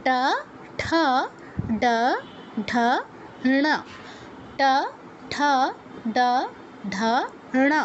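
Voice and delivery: ট ঠ ড ঢ ণ isolated with long pauses; retroflex letter drill. Shown as a demonstration. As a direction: recite ট ঠ ড ঢ ণ with tongue curled back. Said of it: "ট বর্গের উচ্চারণ কি". (ট বর্গ, থেমে থেমে মূর্ধন্য উচ্চারণ)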